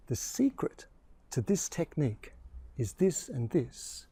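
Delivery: letting someone in on a secret, very quietly; secretive. Shown as a demonstration. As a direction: drop your voice so they lean in. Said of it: "it's done by lowering your voice".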